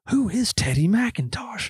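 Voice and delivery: high, slow, drawn-out baffled demand; imitated worked-up exasperation. Todd demanding answers after prank call, mock worked-up. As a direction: stretch each word, mimicking a flustered coworker. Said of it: "Todd's just all worked up".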